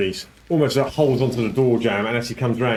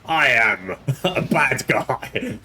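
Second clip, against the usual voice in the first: orcish voice; 4 semitones higher, much slower than usual. Acted. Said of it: "I should have done a better orcish voice".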